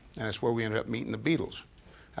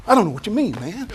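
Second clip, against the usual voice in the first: A drummer doing a famous singer; 10 semitones higher, 7 dB louder, faster than usual. Retold or imitated. A musician joking at a press conference, mock crooner voice. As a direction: ham up an impression of a famous singer as a joke. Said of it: "started doing Elvis and shimmying".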